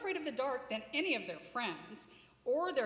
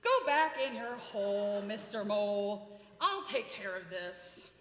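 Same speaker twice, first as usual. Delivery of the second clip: louder, firm order to the mole; commanding owl; 3 semitones lower, 5 dB louder than usual. Acted. Owl orders the mole back into its hole, firm and loud. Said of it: "This would be our owl".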